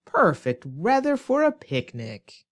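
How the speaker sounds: exaggerated mock delight; sarcastic. Shown as a demonstration. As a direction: oversell it with obvious sarcasm. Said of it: "My sarcastic comment".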